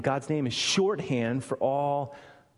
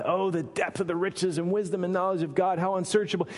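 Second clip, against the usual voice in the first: mildly raised, effusive praise; bursting forth with praise; 5 semitones higher, faster than usual. Acted. Preacher voicing Paul praising God, mildly exultant. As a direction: pour it out in one continuous rush of praise. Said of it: "he's just praising God".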